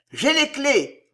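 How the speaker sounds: high-pitched excited cry; high yelp. A narrator's reading. Paquette announcing the keys, high yelp. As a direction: yelp it out triumphantly. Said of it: "glapissait Paquette".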